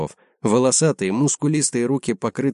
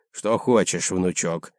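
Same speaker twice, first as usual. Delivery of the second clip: tender; 2 semitones lower, slower than usual. Acted. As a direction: say it gently to the grandson. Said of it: "ласковым голосом сказал Клайдер".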